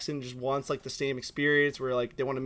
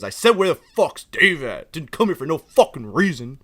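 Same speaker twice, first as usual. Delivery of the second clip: retold angry customer; 6 dB louder than usual. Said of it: "looked down at me and goes".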